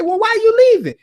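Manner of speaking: high, loud, baffled question. Retold or imitated. To Shaq walking off, he asks, high and baffled. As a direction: call out after him, puzzled.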